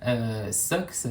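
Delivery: Bewitched Socks prononcé à l'anglaise, lentement; accent anglais. Real, not acted. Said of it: "attention pour mon accent anglais". (nom anglais avec un accent anglais)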